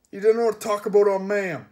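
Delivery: furious henchman shout; angry bellow. Acted. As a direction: thunder it out like an offended giant. Enraged henchman defends his mother.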